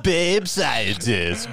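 slow words through a laugh. Real, not acted. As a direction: laugh while reading it out. Laughing repeat of keyword.

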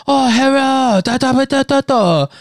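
very high, hammed-up stereotypical Asian accent; exaggerated stereotypical Asian accent. Buffet worker greeting a customer, caricatured Asian accent. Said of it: "worst Asian accent ever to me".

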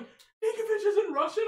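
loud, high incredulous question; shocked disbelief. Retold or imitated. Dad learning the player isn't Russian, shocked disbelief. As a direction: blurt it as if your world flipped. Retells dad's shocked discovery.

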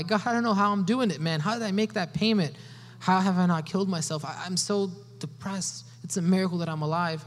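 high, loud, pleading disbelief; desperate cry to God. Acted. A struggling man crying out to God, loud and desperate. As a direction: cry out like someone barely surviving.

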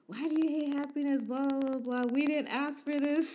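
fast, high West African English accent, mock complaining; light West African accent imitation. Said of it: "a West African accent".

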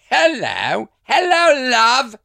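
high, loud cooing hello; sing-song greeting. Pretend. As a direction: coo at a pet. Greeting an animal affectionately.

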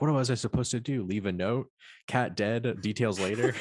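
deadpan Herbert. Retold or imitated. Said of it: "Herbert's like".

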